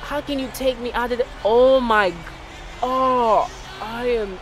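high, loud, exasperated shout; furious outburst. Real, not acted. Gamer benched in the final seconds, shouting in outrage. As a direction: yell in disbelief at being pulled.

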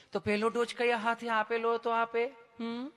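sweet sing-song nurse questioning; mock-affectionate nurse voice; lovingly asking nurse. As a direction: ask tenderly, then a coaxing hum. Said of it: "તમે કેટલું પ્રેમથી પૂછો છો".

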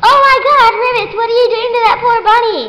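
high, loud alarmed shout; shocked yell. Acted. Onlooker scolds Ribbits, loud shocked shout.

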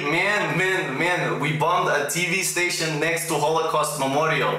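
protesting in a fake Russian accent; put-on Russian accent. Pretend Russian defending himself to accusers online, Russian accent. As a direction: argue back as a pretend Russian, accent thick. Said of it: "I put on my best Russian accent".

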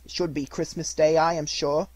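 high, loud sarcastic scorn; bitter wife. Acted. Mrs Cratchit scorns Scrooge to her husband, loud and bitter. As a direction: lash out at the miser. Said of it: "said she".

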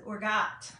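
"Orgot" said dropping the f sound; a little boy saying "Orgot" for forgot, no f; child's lisp. Retold or imitated. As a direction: mimic the grandson saying "Orgot" without the f. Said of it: "He says".

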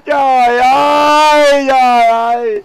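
hammed-up wail, slow; mock crying. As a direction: wail it like a comic sob. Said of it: "Khóc hả anh?". (khóc lóc giả vờ, than thở chậm)

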